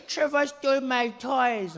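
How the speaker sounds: slow, whiny sob, drawn out; mock tearful child telling on someone; tattling crying cousin.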